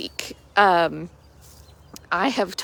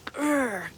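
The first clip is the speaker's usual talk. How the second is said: mock grunt; 5 semitones higher, 4 dB quieter than usual.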